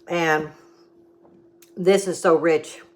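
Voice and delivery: talking while chewing; words round a bite of baklava; mouth full. Real, not acted. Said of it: "you don't talk with your mouth full".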